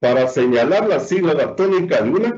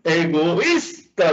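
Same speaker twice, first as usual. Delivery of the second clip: complaining wife; 2 semitones higher, much slower than usual. Retold or imitated. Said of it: "le dice a uno".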